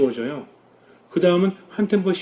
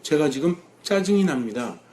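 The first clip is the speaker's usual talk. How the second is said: softly offered, humble prayer; 6 dB quieter than usual. Shown as a demonstration. Admitting anger to the Lord, humbly and softly. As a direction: confess it quietly and humbly to God. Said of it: "겸손하게 하느님께 봉헌합니다".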